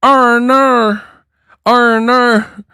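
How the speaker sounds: put-on hoog, nagebootst Australisch accent; mock Australian. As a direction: roep het als een overdreven Aussie. Mocking Australian ringside call.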